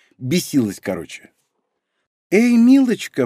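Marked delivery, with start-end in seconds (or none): 2.3-3.3 syrupy, sugary, high honeyed voice. Reading a story, voicing a woman who calls out to another woman in a sugary voice. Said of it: "произнесла Хирану елейным голосом".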